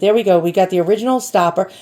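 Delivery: talking while chewing; words around a bite of chips; mouth full. Real, not acted. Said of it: "I was eating".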